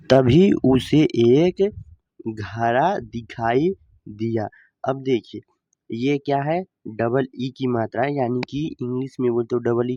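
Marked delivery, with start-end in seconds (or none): 0.1-4.5 loud slow storytelling. Shown as a demonstration. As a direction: read it out much louder, slow and deliberate. Rereads the line loudly and slowly.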